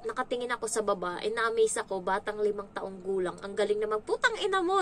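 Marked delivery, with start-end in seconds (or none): 4.1-4.8 high, loud mock child cursing; child's swearing. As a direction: shriek it like a foul-mouthed kid. Child cursing fluently, retold in awe. (matinis na pagmumura ng bata)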